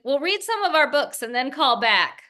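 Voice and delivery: lightly put-on New Jersey no-nonsense tone; mock New Jersey bluntness. Daughter imitating mother's blunt New Jersey phone manner. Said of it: "in this East Coast kind of style".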